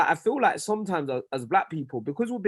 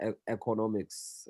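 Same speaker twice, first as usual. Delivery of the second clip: "economics" with Nigerian vowels, eh-ko-NO-miks; Nigerian accent; 5 semitones lower, 9 dB quieter than usual. Shown as a demonstration. Explaining his Nigerian pronunciation to friends, Nigerian accent. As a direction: say "economics" the Nigerian way, open o sounds. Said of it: "that I still say with a Nigerian accent".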